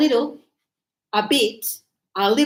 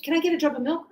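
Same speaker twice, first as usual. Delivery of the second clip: light, fast, run-together question; quick casual request; 3 semitones higher, much faster than usual. Shown as a demonstration. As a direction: rattle off a quick cafe order. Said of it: "It's that fast".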